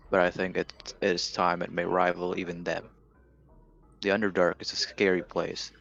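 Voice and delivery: journal reading. Acted. Reads dwarf journal aloud.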